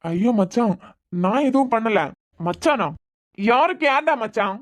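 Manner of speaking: heated, confronting the groom; agitated anger. Acted. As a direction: snap at him, seething and accusing. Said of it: "இவன் என்னத்துக்காக இப்படி படபடக்கான்?". (எரிச்சலான கோபம்)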